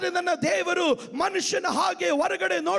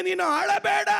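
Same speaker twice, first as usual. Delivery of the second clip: louder repeat; 2 semitones higher than usual. Shown as a demonstration. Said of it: "ಇನ್ನೊಂದು ಸಾರಿ ಹೇಳ್ತೇನೆ".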